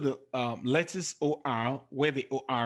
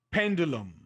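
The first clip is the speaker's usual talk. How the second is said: Pendulum with PEN hit, then falling away; stress on first syllable. Shown as a demonstration. Teacher showing an exception to the class, Pendulum stressed on PEN. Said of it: "it's stressed on the first".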